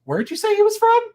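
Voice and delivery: imitating the amazed Scottish boyfriend; mock Scottish partner. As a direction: squeak it out in disbelief. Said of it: "He's like".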